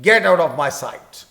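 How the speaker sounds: put-on loud, slow angry command to a child. Shown as a demonstration. Teacher demos an angry line for students, loud and slow. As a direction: bark it out slowly, in anger. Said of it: "تو یہ چونکہ غصے والا جملہ ہے".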